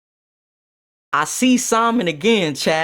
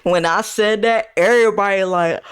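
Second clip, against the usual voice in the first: ordinary talk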